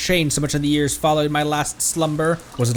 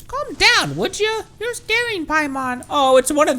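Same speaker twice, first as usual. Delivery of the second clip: a much higher, bouncy little companion voice, reassuring; Paimon voice. Acted. Paimon cheers on Conry in a much higher chirpy voice. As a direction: chirp it up high like a cheerful sidekick.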